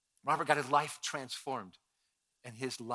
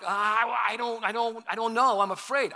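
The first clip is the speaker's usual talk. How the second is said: timid worry; 7 semitones higher, 7 dB louder than usual. Retold or imitated. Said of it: "some of you are like".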